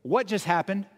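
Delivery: playful, friendly ribbing of a friend; lighthearted teasing. Retold or imitated. Jesus teasing Peter as a friend, lighthearted. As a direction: tease him gently like a buddy. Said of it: "a little more lighthearted than that".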